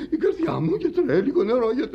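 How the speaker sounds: high-pitched gasp for help; breathless, urgent begging; panicked plea. Acted. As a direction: plead as if your heart is failing. Feigned or felt heart attack, begging help.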